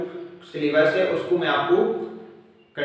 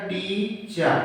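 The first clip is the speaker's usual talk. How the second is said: "टीचर" as टी, then चर; split in two syllables; 3 dB quieter, much slower than usual. Shown as a demonstration. Teacher showing a two-syllable word, "टीचर" split into टी and चर. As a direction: say "टीचर" in two separate beats. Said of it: "उच्चारण हम दो tone में कर पाते हैं".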